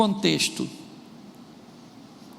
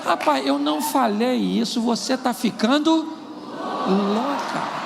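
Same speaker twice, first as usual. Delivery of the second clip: brazen denial; 4 semitones higher, slower than usual. Acted. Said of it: "com a cara mais lavada do mundo".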